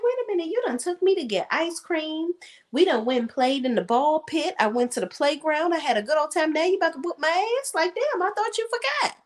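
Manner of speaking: put-on high, whining little kid, indignant at being tricked; whiny kid voice. A kid protests to mama about the promised whooping, in a high whiny child's voice. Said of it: "And I'm like".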